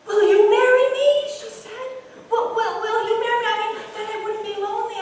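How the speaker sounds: high, fast, laughing plea; eager proposal. Acted. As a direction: blurt the proposal in a rush.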